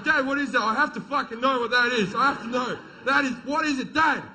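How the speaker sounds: put-on high, urgent childish pleading; pestering kids. Sons beg dad to reveal the object, high excited pestering. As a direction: imitate kids badgering their dad. Kids desperate to know dad's secret.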